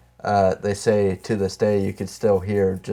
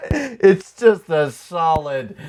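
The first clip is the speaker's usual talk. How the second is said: mock dramatic narration; 7 semitones higher, 4 dB louder, much slower than usual.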